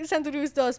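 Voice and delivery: a quick Spanish twist on Santa Cruz; Spanish accent. Shown as a demonstration. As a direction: say dos with a light Spanish accent. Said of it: "I said it in a Spanish accent instead".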